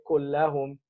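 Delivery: Kullahum with a vowel, as the rejected form; wrong form Kullahum. Shown as a demonstration. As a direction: show Kullahum as the wrong ending. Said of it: "He didn't say".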